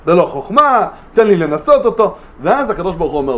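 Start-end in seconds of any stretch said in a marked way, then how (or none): 0.0-2.1 a hint of a scoffing Satan; lightly voiced Satan, dismissive and rising; Satan's challenge. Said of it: "ואז אומר השטן". (השטן מזלזל בגלוי, בטון מתגרה קל)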